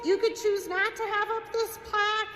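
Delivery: talking through laughter; laughing. Real, not acted. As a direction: let the laugh carry the words. Laughing through her remark.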